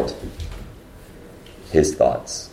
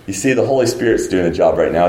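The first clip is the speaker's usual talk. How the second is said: normal talking voice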